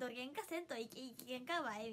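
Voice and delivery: stumbling imitation of Hakata dialect. Streamer retrying a friend's phrase, light Hakata dialect. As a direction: try out a friend's Fukuoka dialect. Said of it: "癖が強すぎる".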